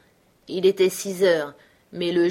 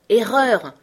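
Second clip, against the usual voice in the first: a louder, higher crow of triumph; triumphant exclamation; 5 semitones higher, 8 dB louder than usual. Acted. Bill proving Henri wrong about the dog count, triumphant. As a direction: catch him out and gloat. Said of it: "s'exclama Bill triomphant".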